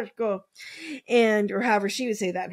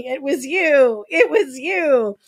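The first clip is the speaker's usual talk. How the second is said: mock scream; 4 semitones higher, 6 dB louder, slower than usual.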